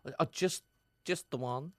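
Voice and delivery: lightly voiced Dublin girl accent; a bad Dublin accent, playing a contestant. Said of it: "Very bad Dublin accent".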